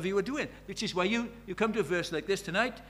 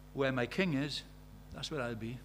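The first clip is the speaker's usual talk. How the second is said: loyal vow; 3 semitones lower, 6 dB quieter than usual. Retold or imitated. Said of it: "just looks at David and he says".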